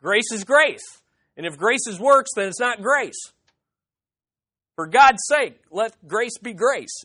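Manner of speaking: mildly exasperated, spelling out the obvious; frustrated. Acted. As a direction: plead as if they just don't get it. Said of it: "he's getting frustrated".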